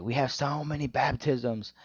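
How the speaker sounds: drawn-out, mildly hyped retelling; pumped up. Retold or imitated. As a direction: imitate a pumped-up preacher's brag. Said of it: "like, they're pumped up".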